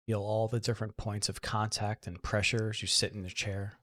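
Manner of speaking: soft, unhurried meditation guidance with long pauses; guided meditation. Real, not acted. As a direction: guide them gently into relaxation, leaving room to breathe.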